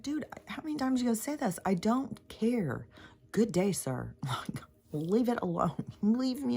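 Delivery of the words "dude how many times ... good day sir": higher, fast mock brush-off; mocking dismissal. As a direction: wave them off with sarcastic disdain. Mocking reply to repeat commenter.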